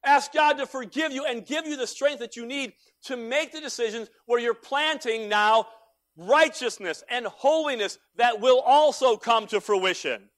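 high, loud, slow pleading call to repent; preaching at full force. Acted. Pastor urging his congregation to repent, full-force preaching. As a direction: cry out to the congregation to turn back.

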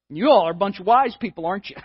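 mock-sarcastic, lightly voiced; snarky sarcasm. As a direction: tease them as if they were fools. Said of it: "I read this as a snarky comment".

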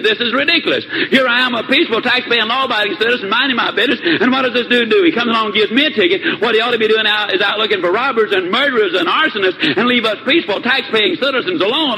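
a boss venting about his speeding ticket; acted outrage, not shouted; furious boss. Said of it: "Mister B was absolutely furious".

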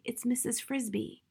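calling softly to a friend in the shadows. A narrator's reading. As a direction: call his name gently without being overheard. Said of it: "she called softly".

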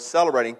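celebrating repeated on its own with a falling tune; celebrating, deliberately repeated for emphasis; stress on celebrating. Real, not acted. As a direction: set celebrating apart as the key word. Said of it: "I emphasize that word".

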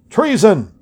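high sharp accusing cry; shouting. A narrator's reading. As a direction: shout the charge out. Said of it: "shouted Speaker Robinson".

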